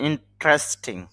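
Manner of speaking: "ইন্টারেস্টিং" shortened to in-tres-ting; three-syllable pronunciation. Shown as a demonstration. Teacher correcting the word for learners, "ইন্টারেস্টিং" said as in-tres-ting. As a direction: drop the middle vowel of "ইন্টারেস্টিং", running t into r. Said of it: "তবে শুদ্ধ উচ্চারণ হবে".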